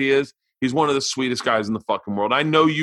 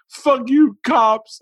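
higher, louder parting shot; defiant shout; 11 semitones higher, 5 dB louder, much slower than usual. Retold or imitated. Verbal walking out on the cops, defiant yell. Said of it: "he's like".

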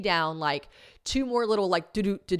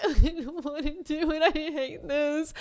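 higher, slow tearful moan; slow whine; 8 semitones higher, slower than usual. Retold or imitated. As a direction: drag the words out miserably. Retold crying on the mountain.

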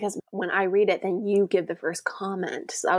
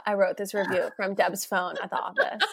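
laughing through the confession. Real, not acted. Confessing the fake review to her co-host, laughing. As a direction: giggle out the prank reveal.

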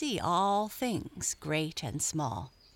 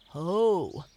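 loud hailing shout; Jimmy Skunk; 7 dB louder than usual. A narrator's reading. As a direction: holler a hearty hail. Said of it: "shouted Jimmy Skunk".

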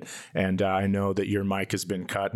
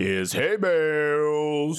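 drawn-out high announcer call; announcer intro; 6 semitones higher, much slower than usual. Pretend. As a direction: stretch the name like a ring announcer. Grand slow introduction.

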